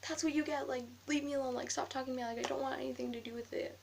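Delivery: retold telling-off. Girl telling off the classmate she hit, mildly heated rant. Yelling at classmate after the fight.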